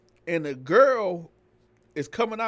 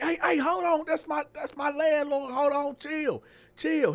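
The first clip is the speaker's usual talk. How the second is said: put-on girl's voice; 10 semitones higher than usual. The girl calming the driver.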